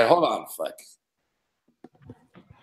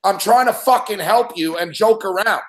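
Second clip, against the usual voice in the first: host scolding. Real, not acted. Host threatening caller Mick on air, firm angry scolding. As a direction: lay down the law, each word firm.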